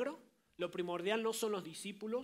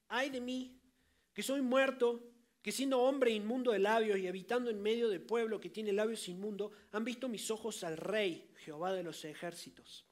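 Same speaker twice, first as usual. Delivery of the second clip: anguished cry; 4 dB louder than usual. Acted. Preacher voices Isaiah's cry of woe.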